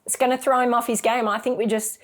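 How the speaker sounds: lightly voiced husband talking her down. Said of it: "And he's going".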